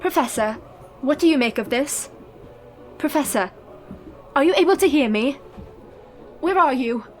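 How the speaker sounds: rising, anxious calling. Acted. Mina in trance calling for the Professor and Jonathan. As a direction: call into the dark for help.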